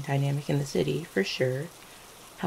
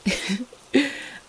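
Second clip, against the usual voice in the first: short, higher chuckle; amused chuckle; 7 semitones higher than usual. Acted. Partner haggling over kisses, amused chuckle. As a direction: let out a little laugh.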